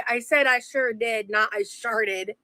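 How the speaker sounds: slow, drawn-out enunciation of "sure did" against "sharted"; careful correction. Real, not acted. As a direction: say "sure did" slowly as two separate words, unlike "sharted". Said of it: "I did not say".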